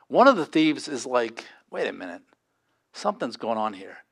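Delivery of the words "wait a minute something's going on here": softer, lower wondering voice; hushed realization. Retold or imitated. Thief on the cross realizing, hushed and lower.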